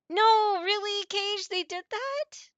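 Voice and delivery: high, loud stunned question; can't believe what you just heard; shocked disbelief. Real, not acted. Shocked at spoiler news.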